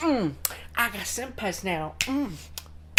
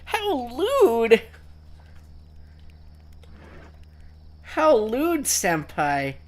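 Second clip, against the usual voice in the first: overacted anime dub; 3 semitones lower, slower than usual. Mock-scandalized anime schoolgirl act.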